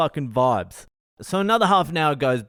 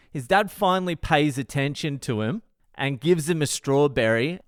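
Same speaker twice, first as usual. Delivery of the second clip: normal talking voice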